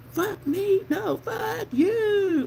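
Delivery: high, drawn-out mock yell without full volume. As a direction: stretch the words in a hammed-up high yell. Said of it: "he was yelling at people".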